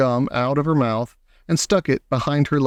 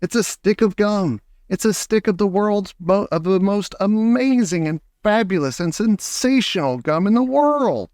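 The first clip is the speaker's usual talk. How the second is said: excited boast; 6 semitones higher than usual. A narrator's reading. Wonka boasting of his invention.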